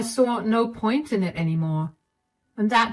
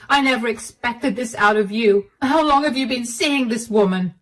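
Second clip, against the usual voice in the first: higher, indignant confrontation; outraged wife; 5 semitones higher, 4 dB louder than usual. Acted. Wife confronting Clive about his affair, higher and outraged. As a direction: demand answers in disbelief.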